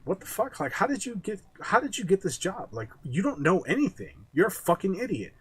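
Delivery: high, incredulous rant at a clueless boss; mock outrage. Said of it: "I was just like".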